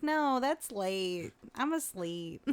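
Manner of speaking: slow, soft mock-drowsy voice; sleepy refusal. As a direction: turn it down as if nodding off. Acts out refusing a late showing.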